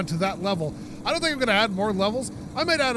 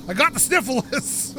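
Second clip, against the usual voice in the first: slow, higher and louder, hamming up the complaint; mock dramatic lament; 5 semitones higher, 4 dB louder, slower than usual. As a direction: play the sniffles as a big tragedy. Jokey self-mocking about a cold.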